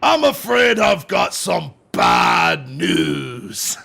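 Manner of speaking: slow, drawn-out English accent; bad English accent. Shown as a demonstration. Answering a friend's accent request, bad English accent. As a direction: attempt an English accent, stretching every word. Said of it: "Let me hear your English accent".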